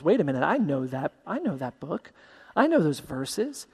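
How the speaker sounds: soft, hushed, leaning in to listen; hushed Philip. Acted. Philip recognizing the verses, softly hushed. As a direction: murmur it as if overhearing. Philip overhearing the eunuch read.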